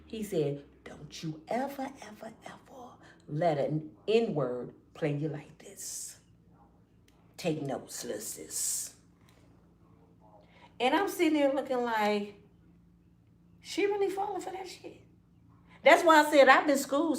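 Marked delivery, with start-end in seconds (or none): 0.8-6.2 low secret whisper of advice. Retold or imitated. Brother covering the phone to warn his sister, whispered. 7.4-8.9 low hushed aside; soft whisper. Retold or imitated. Big brother whispering a tip to his little sister. 13.6-15.0 disbelieving inner voice. Retold or imitated. Her disbelief watching.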